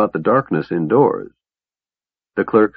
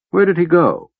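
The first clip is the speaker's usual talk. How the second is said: high, tense question; urgent demand; 9 semitones higher than usual. Acted. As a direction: press him for an answer.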